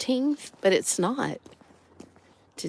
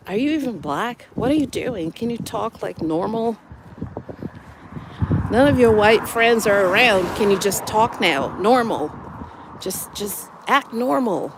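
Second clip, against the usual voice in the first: mock indignant challenge; 3 semitones higher, 4 dB louder than usual. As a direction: imitate a pushy critic, pitch jumping up on questions. Acting out Americans challenging how she talks.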